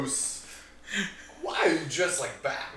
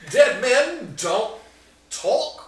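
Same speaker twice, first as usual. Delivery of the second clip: high spooky question; 11 semitones higher, 11 dB louder, much slower than usual. Acted. Dramatic spooky line, rising.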